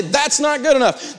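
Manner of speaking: "That's not good enough" high and deliberate; emphatic demonstration. Shown as a demonstration. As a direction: stretch "That's not good enough" as a firm stock reply. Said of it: "you say".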